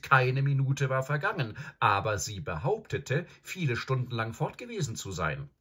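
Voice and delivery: put-on high girl's voice, insistent; exclaimed objection. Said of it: "rief Susan".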